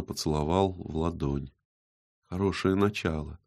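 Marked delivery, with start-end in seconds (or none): 2.3-3.4 soft murmur, a touch of a whisper. A narrator's reading. Model to the artist after a hand kiss, softly whispered. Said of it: "прошептала Галя".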